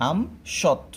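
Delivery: আম then সৎ, each clipped with a stop; teacher sounding out আম সৎ; sounded out syllables. Shown as a demonstration. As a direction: break আমসত্ত্ব into আম and সৎ. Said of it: "আমি কি দিব?".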